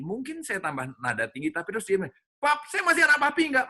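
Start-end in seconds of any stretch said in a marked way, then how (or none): 2.4-3.7 a small daughter begging her papa after breaking a glass; pleading little girl. Retold or imitated. Little daughter asks papa if she's still his child, high and pleading.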